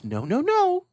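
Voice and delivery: high, firm mom voice refusing; mother saying no to her child. Acted. Mother refusing her son the ball. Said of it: "And the mom goes".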